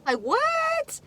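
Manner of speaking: high, loud betrayed outburst; outraged disbelief. Real, not acted. Friend telling how her best friend betrayed her, outraged. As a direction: shoot the pitch up in shocked anger. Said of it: "I'm pissed".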